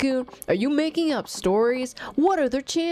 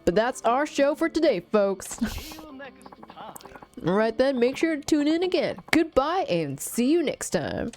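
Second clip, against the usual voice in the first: upbeat show host sign-off; YouTuber voice; 2 semitones higher than usual. Pretend. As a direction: wrap it up like a cheerful YouTuber. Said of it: "like, the YouTuber voice".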